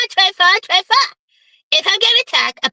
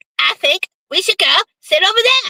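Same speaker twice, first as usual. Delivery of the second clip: put-on cartoon character voice. Telling a strip club story, quoting the stripper in Cartman voice. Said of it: "it's only in Cartman voice".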